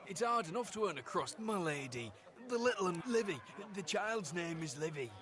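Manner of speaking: afraid. Acted. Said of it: "You expect him to be afraid".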